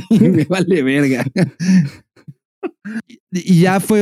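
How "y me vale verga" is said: cocky bee. Pretend. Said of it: "voicing the bee".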